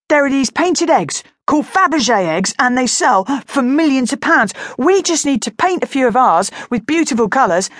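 put-on eager boy. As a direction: sure of his big plan.

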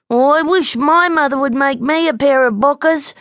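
high, wistful little bear; high-pitched childish longing; wistful sigh. A narrator's reading. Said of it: "sighed Snubby".

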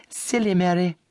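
high mocking sister's voice; elder sister teasing. A narrator's reading. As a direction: scoff at her younger sister. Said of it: "said the eldest".

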